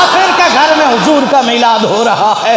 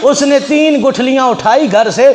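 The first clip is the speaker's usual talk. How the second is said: higher-pitched challenging wife; wife daring her husband, raised pitch; wife's voice; 5 semitones higher than usual. Acted. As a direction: taunt him as the doubting wife.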